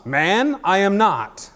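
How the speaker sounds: high, loud, hammed-up denial; seventies Peter. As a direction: protest it with drawn-out, punched words. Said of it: "it's just like the seventies Peter".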